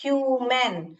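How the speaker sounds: ह्यूमन as two clear beats, "hyu-men"; both syllables of ह्यूमन given full length; two-syllable dictation. Shown as a demonstration. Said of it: "दो syllable का word".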